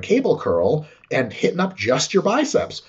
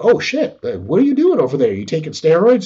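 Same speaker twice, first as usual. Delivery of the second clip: imitating gobsmacked mates, raised voice; shocked buddies; 4 dB louder than usual. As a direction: play the stunned friends at the park. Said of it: "and they're like".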